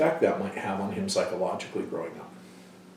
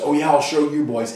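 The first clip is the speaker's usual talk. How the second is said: loud, higher mock bravado; imitating a fired-up, competitive father; macho dad; 6 semitones higher, 8 dB louder than usual. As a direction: boast like a dad taking up his sons' challenge. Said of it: "Dad gets his testosterone on".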